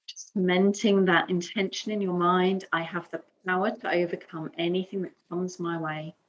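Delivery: calm yoga teacher's guiding voice, long pauses between phrases; guided meditation. Acted. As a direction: guide them gently into breath and stillness. Leads calm breathing and affirmation.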